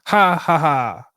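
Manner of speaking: big loud forced laughter; loud fake laugh. Shown as a demonstration. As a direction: belt out a hearty fake laugh. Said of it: "I'ma laugh anyway".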